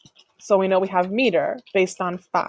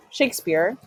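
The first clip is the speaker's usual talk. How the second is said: Shakespeare with SHAKE raised and leaned on; stress on first syllable. Shown as a demonstration. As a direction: lift SHAKE in Shakespeare, let speare drop away. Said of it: "your voice kind of raises an inflection".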